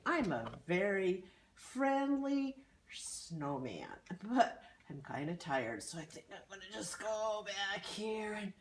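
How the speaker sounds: a lightly voiced snowman fading off; a tired snowman trailing away to sit down; sleepy Olaf. Olaf introduces himself sleepily.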